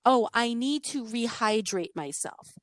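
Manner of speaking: slow, prissy schoolgirl; prim little girl. Retold or imitated. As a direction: say it like an overly proper child. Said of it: "she said something more like".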